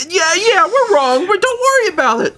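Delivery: parents consoling. Retold or imitated. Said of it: "they're like".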